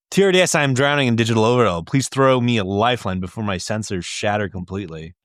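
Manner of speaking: fast, dramatic plea; mock robot plea. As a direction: beg like an overloaded machine. Melodramatic plea in the letter.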